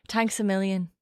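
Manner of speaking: short Irish-accented thanks; light put-on Irish lilt; practising Irish accent. Shown as a demonstration. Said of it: "Why are we doing accents?".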